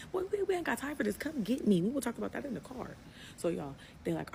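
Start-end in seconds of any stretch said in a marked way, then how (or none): 0.1-3.0 high, loud exasperated outburst; retold impatient shout. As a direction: yell over him to hurry him up. Retells impatient outburst at her brother.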